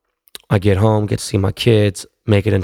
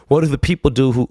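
laughing; 4 semitones higher than usual. Real, not acted. Laughing mid-question to his wife.

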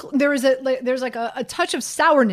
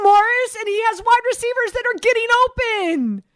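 raised voice; 9 semitones higher than usual. Real, not acted. Heated football argument with caller.

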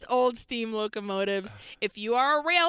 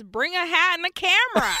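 mock shout; 7 semitones higher, 6 dB louder than usual. Reading review, shouted line.

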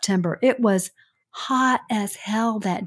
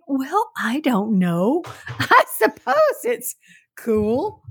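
laughing doubtfully; 6 semitones higher, slower than usual. Retold or imitated. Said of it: "And I was like".

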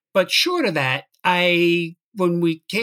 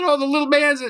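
quoting Greg; 11 semitones higher, 3 dB louder, faster than usual. Retold or imitated. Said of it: "And he said".

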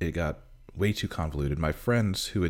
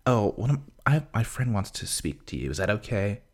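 mock sweet coaxing; 2 semitones higher than usual. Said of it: "She's like".

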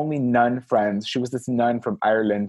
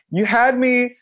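high, laughing disbelief; skeptical retort; 7 semitones higher than usual. Retold or imitated. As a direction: cut her off with an amused doubt. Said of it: "And I was like".

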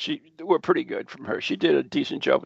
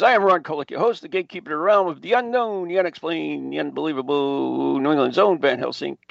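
fast, grand self-introduction patter; quick announcer-style roll call of titles; show host intro. Acted. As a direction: rattle off your billing like a showman. Host's rattled-off show intro.

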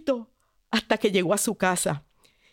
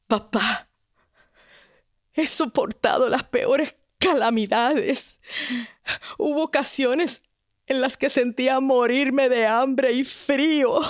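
weary princess. Acted. Princess tells her father of suffering.

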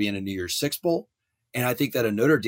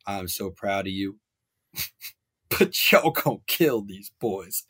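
Terrence Howard; 3 semitones lower than usual. Acted. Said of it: "gonna quote one of my favorite actors".

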